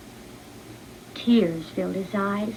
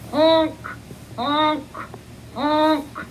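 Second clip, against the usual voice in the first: honking like a goose; 5 semitones higher, much slower than usual. Acted. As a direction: honk like a young goose. Duckling's first honks.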